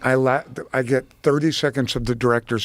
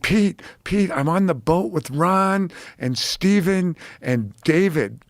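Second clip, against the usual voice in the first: excited caller; 5 semitones higher, slower than usual. Retold or imitated. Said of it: "And she's like".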